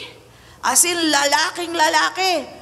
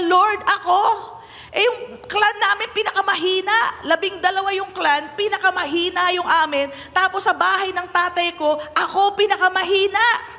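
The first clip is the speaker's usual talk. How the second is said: higher, pleading protest; whiny timid Gideon; 6 semitones higher than usual. Acted. Gideon protests to the Lord that he is weakest, high and pleading. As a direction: shrink away like a coward excusing himself.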